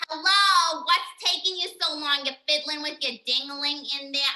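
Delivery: loud, demanding call through a door; impatient calling out. Acted. Mom yelling through the bathroom door, loud and impatient. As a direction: holler at someone stuck in the bathroom.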